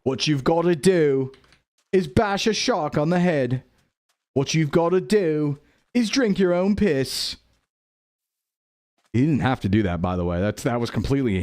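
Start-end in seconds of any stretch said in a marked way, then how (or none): 0.0-7.4 lightly voiced survival host, slow on the last line; a hint of Bear Grylls giving grim advice; Bear Grylls impression. Streamer quotes the survival-show host, lightly voiced. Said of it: "Need that Bear Grylls meme".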